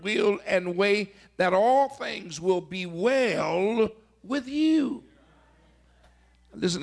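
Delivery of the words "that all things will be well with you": preaching shout. Acted. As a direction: proclaim the promise with force. Preaching climax on blessing.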